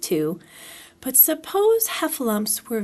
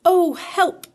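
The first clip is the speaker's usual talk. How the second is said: calling for help; 7 semitones higher, 4 dB louder than usual. A narrator's reading. Pooh stuck inside the jar.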